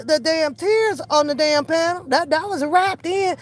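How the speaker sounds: ordinary talk, nothing marked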